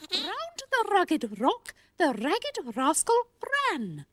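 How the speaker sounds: slow, over-articulated words; slow careful diction. Shown as a demonstration. Voice lesson for Sweep, slow and crisp. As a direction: spell out each sound slowly. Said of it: "watch my lips very closely".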